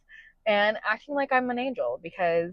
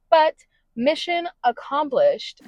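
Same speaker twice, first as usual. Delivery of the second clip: triumphant; 7 semitones higher than usual. Real, not acted. Triumphant end of vlog.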